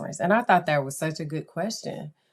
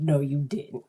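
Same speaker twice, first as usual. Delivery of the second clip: laughing denial. Real, not acted. Laughing disbelief at friend's message.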